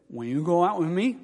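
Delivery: lightly imitated blurred consonants; a hint of thick-tongued asking; speech impediment. Student asking the girl out, mild speech impediment. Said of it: "He had a speech impediment".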